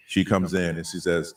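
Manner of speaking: very low electronic bass narration; deep bass voice changer. Pretend. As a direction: tell the tale through a deep voice changer. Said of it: "a little more deep bass".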